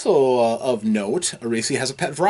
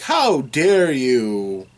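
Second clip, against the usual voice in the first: slow, louder, outraged demand; indignant priestess; 5 dB louder, much slower than usual. Retold or imitated. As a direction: draw out the offended challenge. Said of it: "And she's like".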